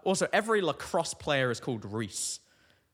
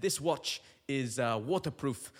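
bad Irish accent; 2 semitones lower than usual. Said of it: "I don't know what this accent is".

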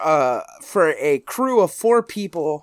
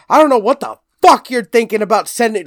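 imitating mom's anger; 5 semitones higher, 6 dB louder, faster than usual. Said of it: "she would be like".

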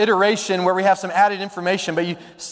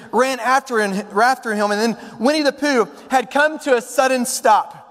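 animated storybook reading, pitched up from plain talk; story narration; 3 semitones higher than usual. A narrator's reading. Preacher narrates Pooh and Piglet tracking, lively storytelling. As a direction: narrate it like a children's tale.

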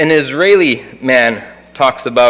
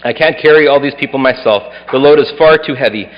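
scripture reading. Acted. Reads Numbers eleven aloud.

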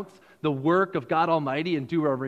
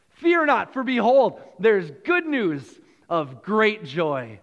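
angel's proclamation; 4 dB louder than usual. Pretend. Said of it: "the angels said".

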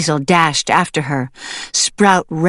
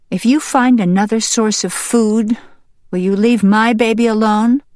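raised, earnest questioning; bargaining hen; 5 semitones higher than usual. Acted. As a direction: put the offer as a pointed question.

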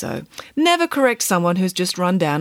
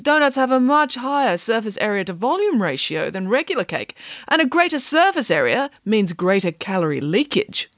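higher, emphatic nanny voice; assertive nanny; 5 semitones higher than usual. Acted. Nanny explaining calorie leakage to children, assertive. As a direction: lay out dubious science with full confidence.

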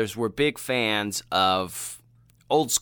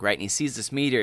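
normal talking voice

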